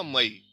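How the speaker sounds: मई with first vowel reduced to "a"; unstressed o as a. Shown as a demonstration. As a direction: say मई as ma-EE, stressing ई. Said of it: "अ की तरह पढ़ते हैं". (मई में ओ को अ, ज़ोर ई पर)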